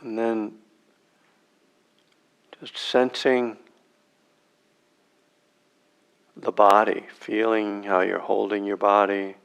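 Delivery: unhurried meditation guide, long silences between phrases; spacious, measured meditation instruction with long pauses; guided meditation. Real, not acted. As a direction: guide them into sitting, phrase by phrase.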